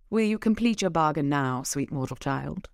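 loosely put-on English accent, murmured end; changing accent. Shown as a demonstration. Leah asking Harry to complete the bargain, wavering accent. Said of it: "I know my accent is changing".

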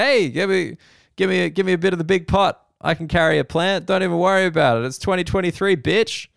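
mock the cheery offer to help; mock breezy woman. Mocking the women's breezy offer.

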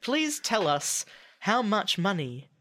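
slow recorded hotline voice; phone menu voice. Pretend. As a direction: read it like an automated line. Centrelink hotline parody.

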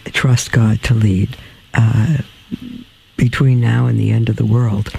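weary, slowed, worn-out speech; tired. Real, not acted. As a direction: sound exhausted, words dragging. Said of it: "I'm stumbling a little bit because I'm just so tired".

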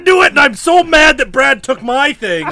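loud, fast, laughing outburst; excited outburst. Real, not acted. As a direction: blurt it out, thrilled. Player's guess is vindicated.

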